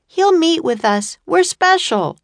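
high and loud, proud; confident boast. A narrator's reading. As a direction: brag it out loud. Annie boasting across courtyard.

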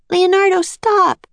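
high, loud call up the hill; crying out. A narrator's reading. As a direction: cry out to stop him. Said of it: "cried Annie".

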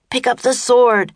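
high, loud urgent order; shouting. A narrator's reading. Jack to Annie before the monster strikes, shouting. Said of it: "he shouted at Annie".

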